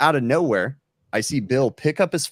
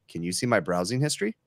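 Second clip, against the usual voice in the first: lower, unreacting imitation of a one-liner; deadpan; 3 semitones lower, 4 dB quieter than usual. Retelling Bill's one-liner to the support lady, deadpan. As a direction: drop the punchline in low, straight-faced. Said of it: "he doesn't even react".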